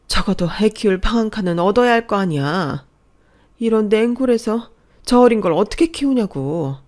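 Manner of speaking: loud, exasperated scolding of a friend; angry tearful scolding. Acted. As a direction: berate her out of love, loudly.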